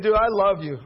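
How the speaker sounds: loud, laughing declaration of love; laughing affection. Retold or imitated. Pastor laughing at the baker after the prank, loving. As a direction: laugh it off warmly.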